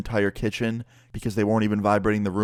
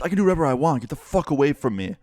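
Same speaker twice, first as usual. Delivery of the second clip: higher-pitched mock defiance; defiant angry neighbor; 5 semitones higher, faster than usual. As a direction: snap back as a belligerent neighbor, acted out. Retold neighbor defying the friend.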